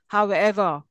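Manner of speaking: "However" with the accent on EVER; stress on second element. Shown as a demonstration. Teacher showing compound word accent, stress on EVER. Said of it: "ever is accented".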